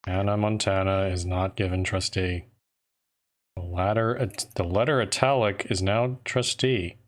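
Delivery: deadpan reading with no life; monotone voice. Pretend. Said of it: "I have to say it in a really monotone voice".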